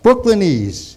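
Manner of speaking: put-on broad old Brooklyn accent; Brooklynese accent. Imitating uncle's speech, Brooklyn accent. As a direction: lean into Brooklyn vowels. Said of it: "he spoke like that".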